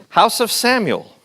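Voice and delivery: put-on slow, high Indian-accented reply; attempted Indian accent. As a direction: answer slowly in an improvised Indian accent. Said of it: "Indian, Indian accent".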